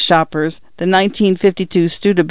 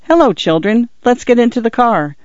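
shy; 6 semitones higher than usual. Acted. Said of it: "said with shyness equal to theirs".

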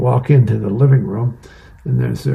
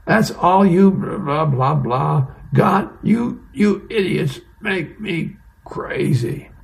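exasperated rant, pitched much higher; angrier sergeant; 6 semitones higher, slower than usual. Retold or imitated. Drill sergeant berating his soldiers, exasperated higher-pitched rant. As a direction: blow up at the troops in mock fury. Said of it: "Sarge gets even angrier and goes".

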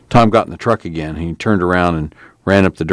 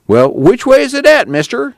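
very high, servile whine; meek, wheedling question; whining; 5 dB louder than usual. Acted. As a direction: ask like a cowed underling. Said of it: "Tom whined".

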